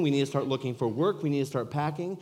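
loud, high, breathless urgency; husband bursting in to tell his wife, elated; excited. Retold or imitated. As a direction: rush to tell her the good news. Excitedly telling wife to pack.

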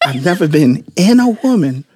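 laughter leaking through; stifling a laugh mid-sentence; trying not to laugh. Real, not acted. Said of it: "can you let me finish? I'm trying to be serious here".

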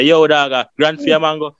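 put-on tourist faking a Jamaican accent, lightly. English tourist switches to Jamaican to haggle with vendor, mock accent. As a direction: slide into mock Jamaican street talk. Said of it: "switch the accent to Jamaican".

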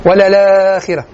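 ولا الآخرة run together with a stretched aa; Warsh reading. Shown as a demonstration. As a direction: hold the long vowel in ولا الآخرة as in Warsh. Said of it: "صديق المغربي بن ورش". (نطق ولا الآخرة بمد ورش)

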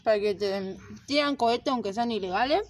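talking with mouth full; words round a bite of food. Real, not acted. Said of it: "No comas".

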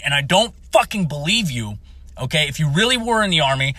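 reliving a full-on military ass-chewing; retold NCO chewing-out. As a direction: tear into him like a furious NCO. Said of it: "I was in fucking N C O mode nine fucking thousand".

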